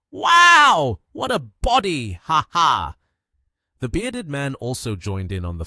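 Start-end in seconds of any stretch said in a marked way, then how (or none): 0.1-3.0 loud, high, drawn-out whoop; excited shouting. A narrator's reading. Thugs cheering each other on, excited shouts. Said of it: "excitedly shouting".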